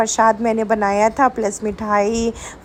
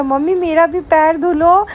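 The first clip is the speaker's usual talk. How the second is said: imitating child Rishank; 5 semitones higher than usual. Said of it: "Rishank मुझे क्या कह रहा था".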